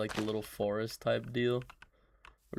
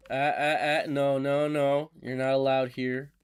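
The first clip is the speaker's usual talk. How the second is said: louder, playful telling off; mock scolding; 3 semitones higher, 7 dB louder than usual. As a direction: shoo it away like a stern host. Scolding mob in garden.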